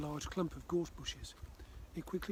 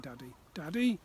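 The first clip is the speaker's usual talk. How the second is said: put-on louder child calling Daddy; 8 dB louder than usual. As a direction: call him from across the yard.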